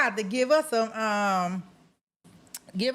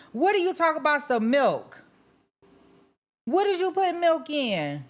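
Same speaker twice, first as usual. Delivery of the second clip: incredulous question; 6 semitones higher than usual. Real, not acted. Shocked at milk in tacos.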